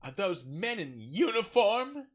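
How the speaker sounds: slow, high, loud swooning awe; hammed-up diva thrill; John Barrowman. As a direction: imitate theatrical astonishment, drawn out. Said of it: "and he goes".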